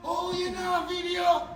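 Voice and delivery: mock shout. Friend retelling Justin yelling about the video, mock shout. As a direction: call it out in mock disbelief. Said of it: "Justin said".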